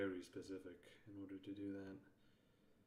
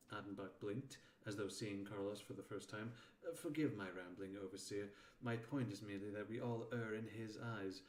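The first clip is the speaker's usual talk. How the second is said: story narration. A narrator's reading. Reads narration and Attenbach's speech aloud.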